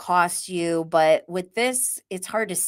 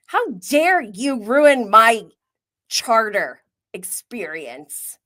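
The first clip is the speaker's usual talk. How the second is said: slow, emphatic pretend indignation; mock outrage; 2 semitones higher, 5 dB louder, slower than usual. Viewer as if on the yacht, mock outrage at guests. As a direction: scold slowly, as a hammed-up wronged guest.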